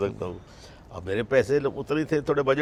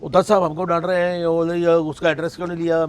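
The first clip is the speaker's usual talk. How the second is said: agitated retelling; 5 semitones higher, 6 dB louder than usual. Retold or imitated. Manager retelling Dutt's scolding.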